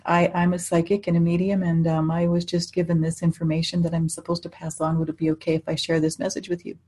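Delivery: quiet, careful gentle offer; soft and careful, don't startle him; very gently. Retold or imitated. Medium approaching a stranger in a pub, gently. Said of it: "and I just said very gently".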